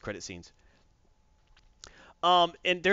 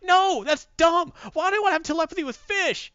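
scoffing; 8 dB louder than usual. Retold or imitated. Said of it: "I was like".

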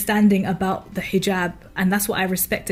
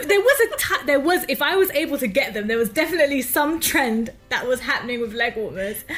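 laughing through the words, pitched up; giggling; 4 semitones higher than usual. Real, not acted. Guest recalling teenage leg warmers to the host, giggling.

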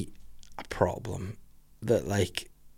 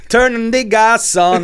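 silly high voice; 10 semitones higher, 5 dB louder, slower than usual. Pretend. Joking voice after laugh.

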